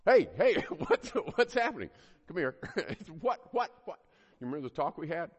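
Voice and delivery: high, loud, hammed-up outburst; acted startled exchange. Mom interrupts Homer at bedtime, loud comic alarm.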